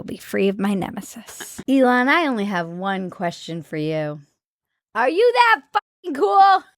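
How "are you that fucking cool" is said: high incredulous outburst. Real, not acted. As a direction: ask in disbelief. Exasperated question to Elon.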